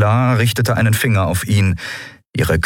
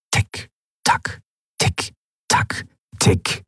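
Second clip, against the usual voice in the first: ticking clock; 3 semitones higher, 3 dB quieter, slower than usual. A narrator's reading. Clock ticking in tense silence.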